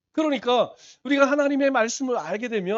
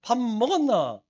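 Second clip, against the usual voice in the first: Gyeongsang dialect; slower than usual. Shown as a demonstration. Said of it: "경상도에서는".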